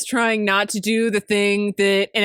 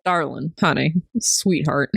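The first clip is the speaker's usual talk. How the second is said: Southern accent; 5 semitones lower than usual. Shown as a demonstration. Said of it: "'cause we're Southern".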